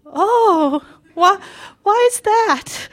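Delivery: high, drawn-out mom imitation; mother's voice. Mom wondering about the new animal, high imitated voice. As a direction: play mom asking slowly in a high voice. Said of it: "And she's like".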